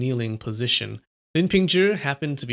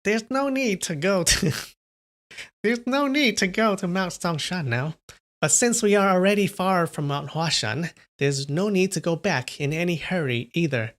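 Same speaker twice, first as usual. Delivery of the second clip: put-on older woman voice; 5 semitones higher than usual. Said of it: "Madame Yue remarked".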